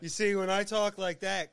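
amused giggle; laughing. Real, not acted. Still laughing at joke.

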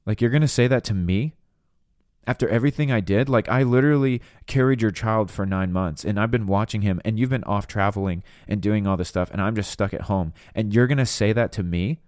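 acted indignant tirade, mildly heated; flying off handle. Imagined wife stuck at home berating her husband, mock indignant. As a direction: pile up the grievances like an affronted spouse. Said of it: "if she's flying off the handle".

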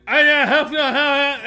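high, loud mumbled mock Cajun; mumbling Cajun worker. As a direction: garble it like an unintelligible Cajun hand. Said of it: "I have no idea what the fuck he said".

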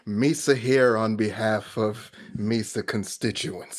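slow mock senate address; lightly voiced alien senator, words drawn out; Jar Jar Binks. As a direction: deliver a slow, halting broken-English speech. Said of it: "Him speaking for the Senate".

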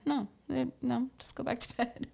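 loud dismissive reassurance, easing off at the end; insistent mock reassurance. Telling partner to go back to bed, insistent mock reassurance. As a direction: open loud and brisk, then settle down.

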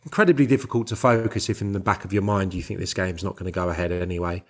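ordinary delivery

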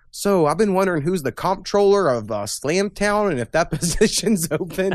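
laughing through quote. Retold or imitated. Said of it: "the first thing he's like".

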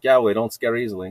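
quick, offhand retort; casual reply. Retold or imitated. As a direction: toss it off casually. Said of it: "just casually, she's like".

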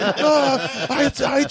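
quiet scream. Retold or imitated. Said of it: "the quiet scream".

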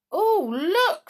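high, loud cry of discovery; startled, high-pitched call; sudden exclamation. A narrator's reading. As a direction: call sudden attention to something. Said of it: "said Molly suddenly".

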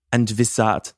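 tentative go at sounding German; mock German pronunciation; attempted German accent. Shown as a demonstration. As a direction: try out a fake German accent. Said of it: "that's not German".

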